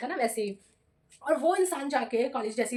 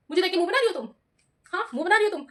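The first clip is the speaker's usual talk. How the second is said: higher-pitched mock scolding; accusing teacher; 5 semitones higher, 4 dB louder, faster than usual. Teacher confronting student over making faces, mock accusing. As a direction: challenge the student like a cross teacher.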